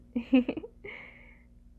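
bright burst of giggling; giggle. Acted. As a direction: giggle at a shy partner. Teasing the shy partner.

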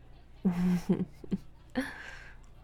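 breathy, teasing chuckle; amused chuckle. Acted. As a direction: chuckle indulgently at them. Amused at partner's neediness.

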